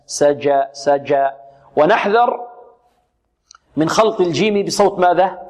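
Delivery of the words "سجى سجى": deliberate سجى, sound held back on the j; correct hard jim. Shown as a demonstration. Teacher correcting the mistake for pupils, hard jim. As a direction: say سجى with a firmly stopped jim. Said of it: "لا".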